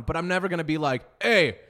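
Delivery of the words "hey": loud, high, drawn-out mock rant; hammed-up vow of revenge, stretching the words; mock furious threat. Acted over-the-top restaurant owner's threat.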